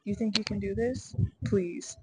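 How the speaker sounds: dismissive inner critic, punched pleases; sassy, doubting put-down; self-doubt talk. Acted. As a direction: scoff at yourself in disbelief. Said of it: "self-doubt talk all the time".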